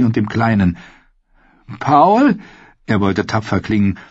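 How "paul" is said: high, a little louder, trying to sound brave; squeak. Acted. Sam calls the dead Paul's name, failed brave squeak. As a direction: meant brave, comes out a squeak. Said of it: "brachte jedoch nur ein Quieken hervor".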